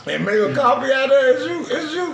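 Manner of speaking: high, disbelieving squeal; can't believe what she just heard; incredulous. Real, not acted. Friend reacting to the bean coffee idea, high incredulous squeal.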